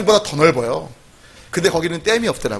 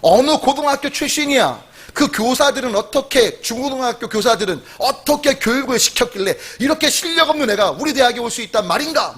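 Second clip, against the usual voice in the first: retold anger, lightly acted; angry professor; 3 semitones higher than usual. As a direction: act out an incredulous, cross complaint. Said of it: "화가 나서 이렇게 말했대요".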